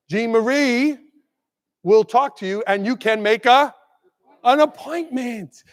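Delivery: a hint of a polite callback; mock voicemail. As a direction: leave a gentle voicemail. Principal's voicemail to parent.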